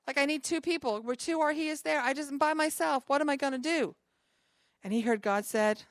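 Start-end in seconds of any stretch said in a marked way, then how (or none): 0.1-3.9 higher-pitched voicing of a man in need; retold plea, voice raised in pitch; mild acted worry. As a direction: lightly act out someone at a loss, pitched up. Acts out man praying alone, worried.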